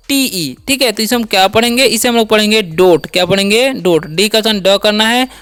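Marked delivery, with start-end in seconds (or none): 2.6-3.1 "डोट" with silent final E; teacher's model of "डोट"; demonstrated pronunciation. Shown as a demonstration. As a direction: say "डोट" with ओ, stopping on ट. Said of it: "last वाला ई का उच्चारण नहीं होगा".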